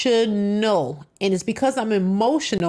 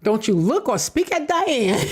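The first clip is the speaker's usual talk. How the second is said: mocking baby mom; 5 semitones higher than usual. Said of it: "She said the baby mom saying".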